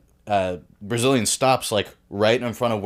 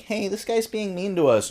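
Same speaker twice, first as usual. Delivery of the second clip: mock whiny complaint; 11 semitones higher than usual. Girls complaining to Viking dude.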